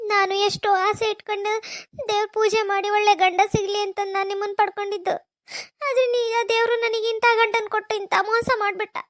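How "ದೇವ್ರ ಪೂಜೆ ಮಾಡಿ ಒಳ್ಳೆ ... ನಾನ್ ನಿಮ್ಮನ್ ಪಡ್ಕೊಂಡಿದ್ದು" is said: tearful confession; crying. Acted. Wife recalling her prayers for a good husband, crying. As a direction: speak it through tears.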